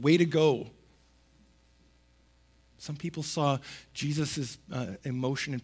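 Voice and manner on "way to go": sarcastic. Pretend. Sarcastic aside to Jesus.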